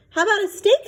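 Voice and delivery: put-on eager child. A narrator's reading.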